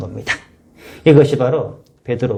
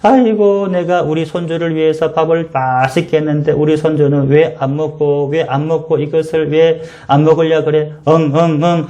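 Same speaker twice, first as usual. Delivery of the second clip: mock wailing grandma; a hammed-up grandmother pretending to sob; grandma fake crying; 2 semitones higher than usual. Grandmother pretends to cry so her grandson eats, mock wailing. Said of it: "우리 할머니가 우는 체 합니다".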